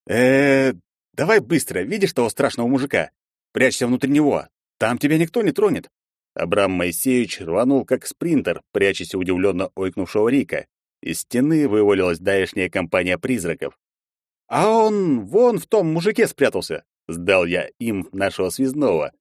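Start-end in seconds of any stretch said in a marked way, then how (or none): 0.1-5.9 hurried urging. Acted. Герой торопливо подсказывает. 14.5-16.8 snitching. Acted. Герой сдаёт связного.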